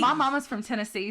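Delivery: put-on Tennessee Southern accent. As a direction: let a Tennessee twang come out. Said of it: "so the accent's real for me".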